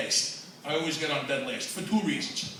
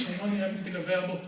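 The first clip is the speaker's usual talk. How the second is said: mock classy ask; 5 dB quieter, much faster than usual. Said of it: "walk up to the counter like you got some class".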